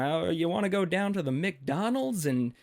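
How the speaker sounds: lightly done British gent; mock British accent. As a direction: play an American faking a posh British accent. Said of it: "like, a smooth British accent".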